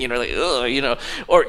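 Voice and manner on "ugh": low groan of disgust; disgusted ugh. Acted. Reacting to live octopus sushi, disgusted. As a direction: let out a grossed-out "ugh".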